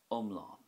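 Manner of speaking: "Umlán" with a short start and long, stressed "lawn"; stress on final á. Shown as a demonstration. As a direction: lean on the á ending of "Umlán". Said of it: "more emphasis on the a fada at the end".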